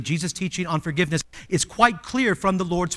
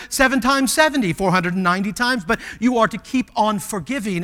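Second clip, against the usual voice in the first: high, loud, emphatic correction; firm loud answer; 6 semitones higher, 7 dB louder than usual. Acted. Jesus answering Peter about forgiving, loud and firm. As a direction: set Peter straight with force.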